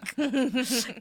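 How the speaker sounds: Kohak with an h sound; mispronounced name. Shown as a demonstration. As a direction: say Kohak laughing at the slip. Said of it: "You almost said Kohak".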